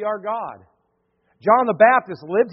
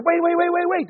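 calling out; 11 semitones higher than usual. Retold or imitated. Calling after departing visitor.

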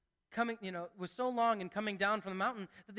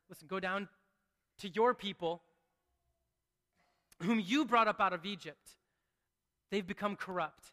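weighty, sincere telling of God's words; earnest reading; 2 semitones lower than usual. Shown as a demonstration. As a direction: let each phrase land with weight. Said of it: "it's more than that".

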